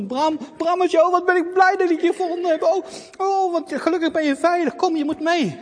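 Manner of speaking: high, loud, happy reunion; overjoyed to have found him; relieved excited girl; relieved joy. Acted. Girl finds lamb relieved.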